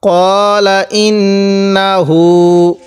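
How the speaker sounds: কলা said with a short rounded ko, not কালা; slow recitation; short kala. Shown as a demonstration. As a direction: keep the first vowel of কলা short, then draw out ইন্নাহু. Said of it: "কেউ কালা পড়ব না".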